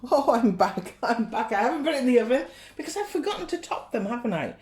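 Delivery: laughing, rushing the words. Real, not acted. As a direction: giggle through it, quick. Laughing at her own forgetfulness.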